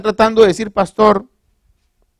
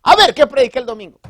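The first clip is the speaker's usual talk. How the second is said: mock quiz; 7 semitones higher, 4 dB louder, faster than usual. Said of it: "para que yo venga y le diga".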